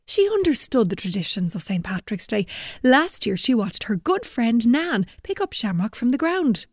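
put-on lively storyteller reading to kids; story narration. A narrator's reading. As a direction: tell it like a children's story. Reads story to children.

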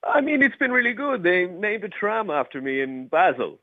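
a bad Swiss impression of Federer; mock Swiss accent. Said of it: "you sounded more like Borat than you sounded like Roger Federer".

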